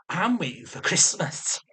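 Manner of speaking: slow, hushed comeback; half-whispered mock reply; sarcastic retort. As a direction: draw it out with dry sarcasm.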